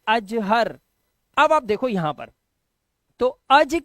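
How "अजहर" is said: अजहर in two closed chunks, अज-हर; correct word reading. Shown as a demonstration. Teacher answering what you must say, correct reading. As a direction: say अजहर as अज plus हर, closing each part. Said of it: "तो आपको क्या बोलना पड़ता है".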